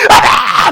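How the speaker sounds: mock gasp. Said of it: "막 이러는데".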